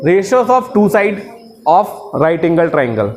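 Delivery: drawn-out chanted definition, very slow; slow recitation. Shown as a demonstration. Teacher reciting the definition for students, slow chant. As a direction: recite it slowly for the class to repeat.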